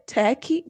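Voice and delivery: "Turkey" pitched high as a questioning try; trying a pronunciation. Shown as a demonstration. Podcaster unsure how to say the country, "Turkey" as a high questioning try. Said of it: "How do you pronounce it? Do you say".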